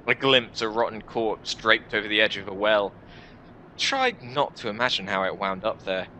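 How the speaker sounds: measured first-person narration, set apart by pauses; story narration. Acted. Player character recounts drawing in humanity, story narration. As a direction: read it like a dark fantasy tale.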